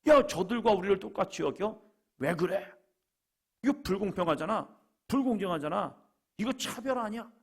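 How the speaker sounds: high-pitched acted indignation; grumbling protest. Early workers grumbling about unequal treatment, in indignant protest. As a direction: complain hotly, pitch pushed up. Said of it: "투덜거리면서".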